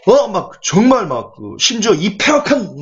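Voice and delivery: half-hearted, halting telling-off; mock scolding. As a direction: imitate a father scolding his children. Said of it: "막 야단치고 있어요".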